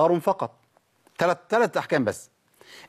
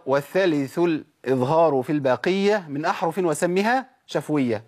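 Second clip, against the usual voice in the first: slow measured recitation; steady poem reading; recited verse; slower than usual. Shown as a demonstration. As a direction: chant the verse as a teacher. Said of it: "قلنا".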